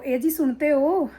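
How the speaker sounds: slow, sugary "ए जी, सुनते हो?"; sweet wife imitation. Wife in public sweetly calling her husband, slow and sugary. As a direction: coo at the husband for show, slowly. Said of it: "इस तरह से tone change हो जाती है".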